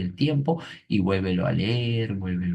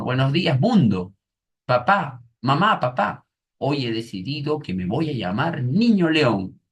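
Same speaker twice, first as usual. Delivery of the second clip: niño alegre; 6 semitones higher, 3 dB louder than usual. Retold or imitated. El niño anuncia su nuevo nombre.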